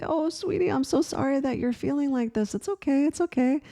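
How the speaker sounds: mother gently soothing her daughter. Retold or imitated. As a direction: coo like you're comforting a scared little girl.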